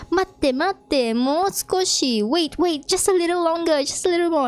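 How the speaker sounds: high-pitched, mildly acted plea; urgent pleading. Doorbell guy stalling angry visitor, mock pleading. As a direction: beg for a little patience.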